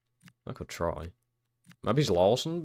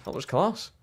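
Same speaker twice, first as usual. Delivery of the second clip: higher and louder, still buzzing; excited praise; 9 semitones higher, 6 dB louder than usual. Real, not acted. Player still buzzing about his keeper's save, raised and excited.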